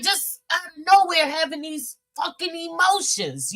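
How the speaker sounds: high, mock-tearful complaint; high imitation of a tearful rant; retold crying. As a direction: whine it as if crying. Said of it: "crying like a mug yesterday".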